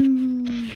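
loud, high mock wail; imitated crying. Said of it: "they started crying. They're like".

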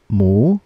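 "mu" long, dipping then rising; third tone. Shown as a demonstration. Teacher drilling learners in third tone, "mu" dipping and rising. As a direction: sink down on "mu" and climb back up. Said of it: "One more time".

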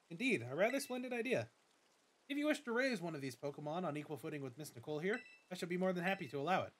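lightly voiced formal school director; a hint of a polite headmaster welcoming a student; Director Clavel. Director greets the new student, lightly formal voice.

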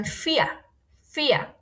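"ফিয়া" opening on an f sound. Shown as a demonstration. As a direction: model "ফিয়া" as "fi-a". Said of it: "এটা ফয়ের মতো উচ্চারণ হবে".

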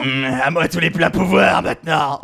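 lightly voiced power-hungry schemer; villainous gloating. Voices the game villain's thoughts. (voix de méchant avide de pouvoir)

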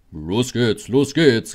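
rallying call that climbs in pitch and volume. A narrator's reading. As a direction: call the coaches into motion. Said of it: "rief Gordon den Wagen zu".

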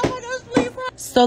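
usual speaking voice

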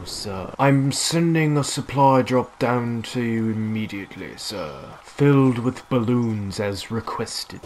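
lightly put-on English butler accent. Gamer playing a posh English butler to his teammate, lightly done. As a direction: serve the player like a polite English butler. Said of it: "a butler accent in my mind".

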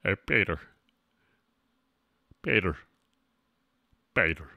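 low voice calling out in short bursts; comic character voice. Pretend. Streamer hailing Peter as a bit, low character voice. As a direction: drop low and hail a pal.

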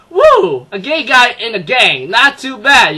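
high, loud whooping cheer, laughing; hammed-up excited cheer, half laughing; gleeful whoop. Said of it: "not going".

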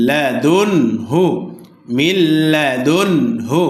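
slow recitation, clean ন in লাদুন joined to হু; measured example of লাদুন হু, n fully clear; izhar, clear nun. Shown as a demonstration. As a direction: join লাদুন to হু with no nasal hum. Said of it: "স্পষ্ট করিয়া মিলাইয়া পড়িতে হয়".

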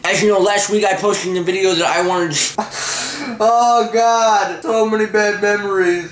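retainer-slurred first take; wearing a retainer. Real, not acted. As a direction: mouth full of retainers. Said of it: "with both my retainers in my mouth".

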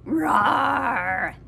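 mock tiger roar, called out; playful little tiger roar. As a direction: roar for the baby to copy. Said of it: "What does baby tiger say?".

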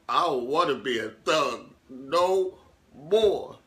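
slow, drawn-out weepy plea; mild mock sob voice; a touch of tearful. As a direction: let it wobble out like you're about to cry. Tearful confession of giving up.

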